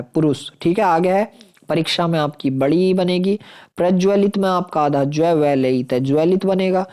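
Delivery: ordinary talk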